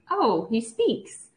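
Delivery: slow, drawn-out mock realisation; understated wonder, rising at the end; retold surprise. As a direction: act out a mildly astonished discovery. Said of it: "And I'm like".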